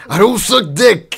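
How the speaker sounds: loud, high-pitched mock rapper shout; a famous rapper. Friend mocks co-host by imitating a rapper, shouted. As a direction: shout it as an over-the-top rapper impression. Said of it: "you sound like a famous rapper".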